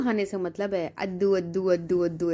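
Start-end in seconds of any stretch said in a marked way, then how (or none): 1.0-1.7 put-on lisping little-kid voice asking for laddu; lightly voiced toddler lisp; imitating toddler baby talk. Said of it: "ऐसे करता रह रहा था". 1.7-2.3 put-on lisping little-kid voice repeating अद्दू; lightly voiced toddler lisp; imitating toddler baby talk. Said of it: "ऐसे करता रह रहा था".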